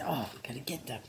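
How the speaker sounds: voicing the dog. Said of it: "She says".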